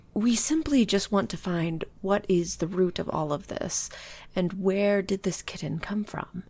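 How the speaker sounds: soft, pleading whisper. Acted. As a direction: lean in and whisper it. Charming plea leaning in.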